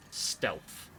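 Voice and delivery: whispered to himself. Real, not acted. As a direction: breathe the word out unvoiced. Sneaking in game.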